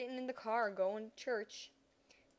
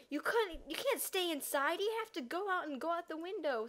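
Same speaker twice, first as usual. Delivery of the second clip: lightly voiced mom, pitched up; imitated mom; 6 semitones higher than usual. Mom telling kids how to escape a break-in, lightly imitated in higher pitch. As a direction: give a mother's instruction in a higher voice. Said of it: "My mom was like".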